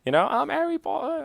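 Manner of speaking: playful imitation of a high Australian accent; light-hearted imitation of an Australian accent; mock Australian accent. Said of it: "I wish I had a killer accent like that".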